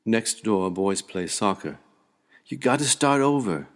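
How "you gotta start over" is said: high, loud playground shout; boy's call, pitched up and loud. Acted. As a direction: yell it across a soccer game. Boys calling out during soccer.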